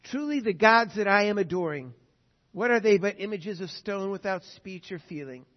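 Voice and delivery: the Aztec king speaking to conquistadors, solemn and loud; quoted king. Retold or imitated. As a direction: proclaim it like a wondering king. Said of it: "told the conquistadors this".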